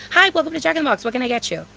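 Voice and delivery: friendly, cute order-taker opener; friendly greeting. Acted. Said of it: "'cause it's friendly".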